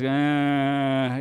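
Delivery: long, soft, helpless "uh"; wordless defeated drone. Retold or imitated. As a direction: groan as if words have failed. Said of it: "you lose the ability to talk".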